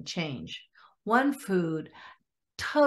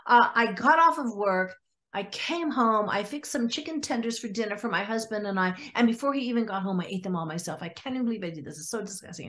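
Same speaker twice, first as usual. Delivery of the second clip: upset retelling; faster than usual. Retold or imitated. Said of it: "just so upset with herself".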